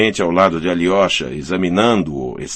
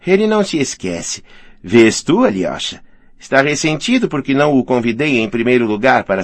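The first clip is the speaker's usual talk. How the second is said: animated woman's voice, leaping higher on openings; lightly voiced cheerful hostess; 5 semitones higher than usual. Hostess soothing her touchy friend, lightly voiced good humour. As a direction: lightly play a woman in a kindly, teasing mood.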